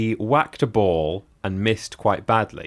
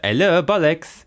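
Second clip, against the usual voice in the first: lightly put-on French accent, higher and a bit louder; mock French accent; 8 semitones higher, 5 dB louder than usual. Retelling the pool-table joke, mock French accent. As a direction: greet like a comic French phone operator, French accent. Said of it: "in a French accent".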